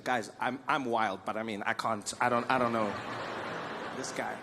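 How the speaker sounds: Kim Jong-un. Retold or imitated. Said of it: "where he's just like".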